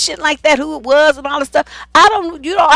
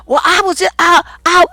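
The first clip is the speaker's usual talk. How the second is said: higher, flustered stammer; stuttering and stammering; 6 semitones higher, 4 dB louder than usual. Retold or imitated. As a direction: trip over the words, caught out. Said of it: "he started stuttering and stammering".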